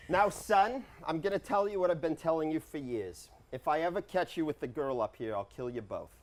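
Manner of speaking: a hint of a stern father warning. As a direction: lay down the law to the son.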